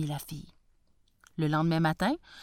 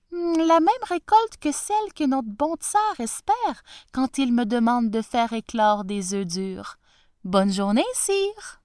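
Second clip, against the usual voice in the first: clever retort; 4 semitones higher, 3 dB louder than usual. Acted.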